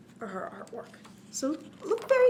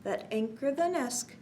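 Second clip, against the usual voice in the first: put-on reading to children; slower than usual. A narrator's reading. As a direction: bounce the rhyme for little listeners. Reads cumulative rhyme to children.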